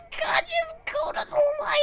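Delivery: extremely high mock shriek; hysterical wailing. Woman seeing the cat breathe again, hysterical mock wail. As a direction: burst into a hammed-up wailing squeal. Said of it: "then the poor woman would go".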